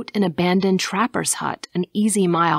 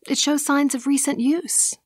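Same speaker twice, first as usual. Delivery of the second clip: high, puzzled observation; surprised; 8 semitones higher than usual. A narrator's reading. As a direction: pitch it high with mild surprise. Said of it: "she said with surprise".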